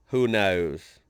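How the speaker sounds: forced Australian accent on "knows"; attempted Australian accent. Shown as a demonstration. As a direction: try "knows" with an Australian vowel, tongue lifted at the back. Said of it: "let me try the up, like, looking over an edge".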